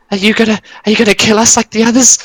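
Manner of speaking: high, frantic goblin voice; a cowering goblin begging not to be killed; panicked goblins. Acted. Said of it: "they kind of stop for a second and they go".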